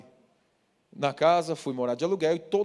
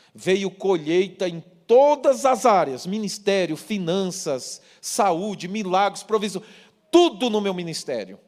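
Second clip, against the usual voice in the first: preaching fervor; 4 semitones higher, 6 dB louder, slower than usual. Acted. Preacher listing blessings emphatically.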